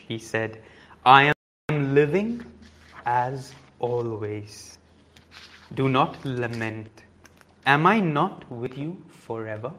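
even, measured reading voice with quoted lines; book reading. Acted. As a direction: carry the story for the listeners. Reads the autobiography aloud.

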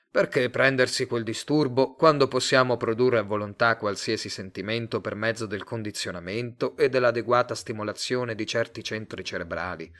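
plain reading voice

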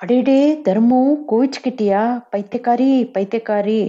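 high, playful teasing of his wife; a light teasing chuckle in the voice; teasing old husband. A narrator's reading. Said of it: "என்று விளையாட்டாக சிரித்துக்கொண்டே".

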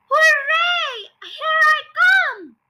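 high, loud, drawn-out cheer; jubilant shout. A narrator's reading. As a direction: holler it in triumph. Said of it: "finding her voice is loud".

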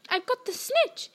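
high, excited shout of victory; triumphant shout. Acted. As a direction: yell it out holding the prize up. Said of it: "he shouted".

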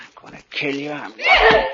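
a laughing yell that breaks very high; manic laughing shout. Acted. Nicky laughing madly as he attacks Kitty. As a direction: cackle the threat as you lunge. Killer laughs while lunging.

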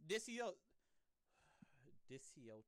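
whispering while sounding out the word; whispered stumble. Real, not acted. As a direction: breathe the syllables under the breath. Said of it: "I'm struggling with that word".

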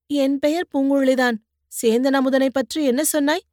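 put-on young woman needling the man she pulled from the mud; teasing young woman. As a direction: poke fun at his cries like a sharp-tongued girl. Poonguzhali presses him.

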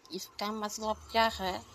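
slow lisping little-sister question; childish lisp. Acted. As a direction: ask it with babyish consonants. Lisping sister asks the meaning.

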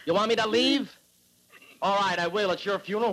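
a step up in anger from the first ask. Acted. Husband repeats question rising.

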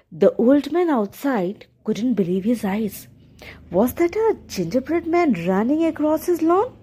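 gentle storyteller reading a fairy tale; story narration. A narrator's reading. Narrator telling the viewers a fairy tale, gentle storytelling. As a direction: read it like a bedtime story.

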